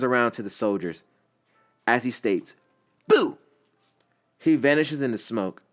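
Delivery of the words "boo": high, loud teasing boo; playful scare. Acted. Naruto's clone scaring the soldiers with a loud playful boo. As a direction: jump out at them, loud and high.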